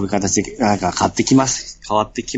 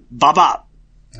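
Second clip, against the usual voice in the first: loud, raised-pitch blurt; big loud voice; 5 semitones higher, 5 dB louder, slower than usual. Shown as a demonstration. Co-host repeats the rude word on request, in a big loud voice. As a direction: say it out loud and clearly. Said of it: "言うなら大きい声で言ってください".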